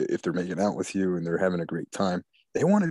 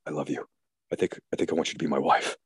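mock tender proposal; 4 semitones lower, faster than usual. Acts man's smooth false declaration.

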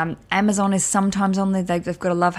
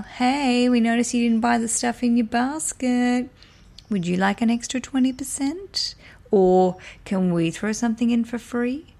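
lightly voiced, higher sales pitch; mock marketing email; 4 semitones higher than usual. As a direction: read it like a chirpy marketing email. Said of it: "and then say".

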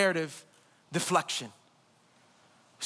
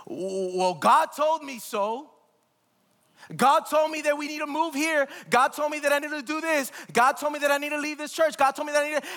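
mock excuse-making; 5 semitones higher than usual. Mocking self-justifying churchgoer.

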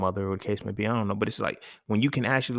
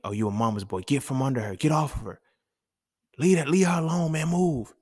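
put-on an impatient adult chasing a boy away, building to a shout; scolding the boy; 3 semitones higher than usual. Adult shooing boy off mama.

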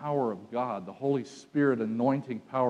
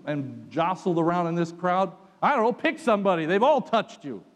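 exasperated disciples; 5 semitones higher, 4 dB louder than usual. Acted. Disciples doubting Jesus' question.

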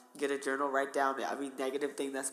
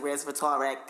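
Jersey accent; 7 dB louder than usual. Shown as a demonstration. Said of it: "See, my accent is just bad".

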